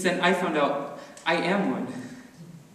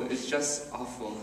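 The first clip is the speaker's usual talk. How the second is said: "just" leaned on, the whole line dropped much softer; softer repeat; 6 dB quieter than usual. Acted. Paul recalling the school hallways, repeating it much softer. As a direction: let "just awful" sink away, softer.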